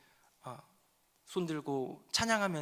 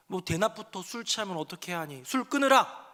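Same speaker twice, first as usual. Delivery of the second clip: mock rebuke. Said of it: "엘리가 얘기합니다".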